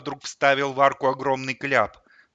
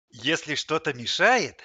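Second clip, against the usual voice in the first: slow, higher, solicitous purr; caring purr; 3 semitones higher, slower than usual. A narrator's reading. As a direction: coax him with fake-sweet concern. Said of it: "заботливо промурлыкал Лысый". (заботливо мурлыча)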